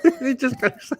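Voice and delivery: high, slow, wobbly soap-opera damsel; mocking a hammy soap-opera actress, high and slow; hammed soap actress. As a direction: overact like bad daytime TV, giggling.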